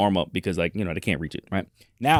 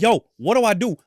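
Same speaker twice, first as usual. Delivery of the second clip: mock panic; 10 semitones higher, 3 dB louder than usual. Swarmed by kids, panicking.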